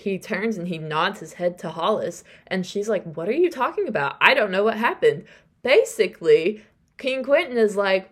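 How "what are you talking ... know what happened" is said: higher, quick confused protest; baffled denial. Retold or imitated. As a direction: act out bewildered innocence. Hollis acts out baffled denial.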